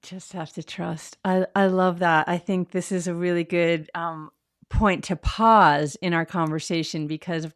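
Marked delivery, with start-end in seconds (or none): 0.0-1.2 soft echo. Real, not acted. Echoes her softly.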